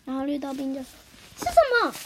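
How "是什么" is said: 好奇小孩. Acted. 绿豆冰好奇追问.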